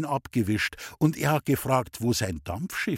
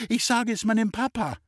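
put-on high, tearful child's threat; boy crying he'll tell his dad; wailing child; 9 semitones higher than usual. A narrator's reading. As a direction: wail it like a crying little boy. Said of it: "hat immer geschrien".

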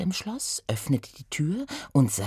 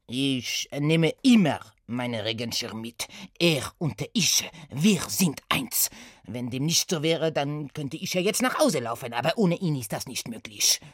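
Satie mit französischem Akzent, innig; erklär es schwärmerisch mit französischem Akzent; französischer Akzent. Acted. (Satie schwärmt von seinem Schirm, französischer Akzent)

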